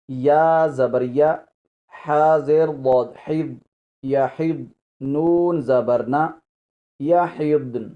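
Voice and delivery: letter by letter, slow, each syllable spaced; slow spelling out. Shown as a demonstration. Teacher spelling the word for students, slow and deliberate. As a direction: spell یا حبن deliberately for the class. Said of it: "ہم پہلے ہجے کر لیتے ہیں".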